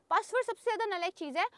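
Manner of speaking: "Password सबसे ज़्यादा नालायक चीज़ है" said again, fast; fast repeat. Shown as a demonstration. Teacher repeating the point to class, quickly.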